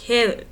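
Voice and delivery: "heaven" squeezed into one loud beat, heav'n; one-syllable heaven. Shown as a demonstration. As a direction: swallow the second vowel of "heaven". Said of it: "made it into one syllable".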